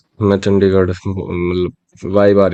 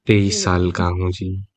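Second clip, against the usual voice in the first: softer, deferential answer; meek, polite redo; 2 semitones lower, 5 dB quieter than usual. Shown as a demonstration. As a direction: say it gently, as if told off. Softened redo after being called scary. (नरमी और अदब से, धीमी आवाज़ में)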